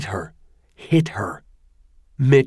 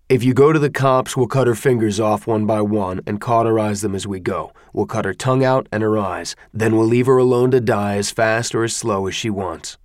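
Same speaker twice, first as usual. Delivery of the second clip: matter-of-fact. Acted. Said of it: "without menace, in a matter-of-fact tone".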